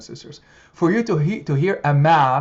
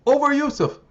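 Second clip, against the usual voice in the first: grieving lament; 6 semitones higher than usual. Acted. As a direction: wail it as a grieving father. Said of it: "He said".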